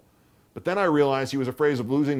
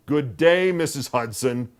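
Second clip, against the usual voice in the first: grim; 4 semitones higher, 7 dB louder, slower than usual. A narrator's reading. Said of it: "he said grimly".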